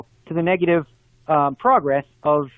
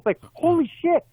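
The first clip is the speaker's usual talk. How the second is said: exasperated; 11 semitones higher than usual. Real, not acted. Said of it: "exasperated reaction".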